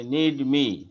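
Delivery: নিড মি with the d swallowed into মি; assimilated need me. Shown as a demonstration. Teacher demonstrating the blended নিড মি to students. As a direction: blend নিড into মি without a full d. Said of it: "ডিটাকে মি এর সাথে assimilation করে".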